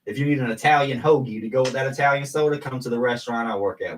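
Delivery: loud, high hype for the hoagies; excited sales pitch. Acted. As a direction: sell it like a pitchman. Hyping Italian hoagies, sales pitch.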